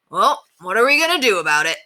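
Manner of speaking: lightly voiced grown-up neighbour, a bit put out; a hint of an annoyed driver asking what now; Mister Grumby. A narrator's reading.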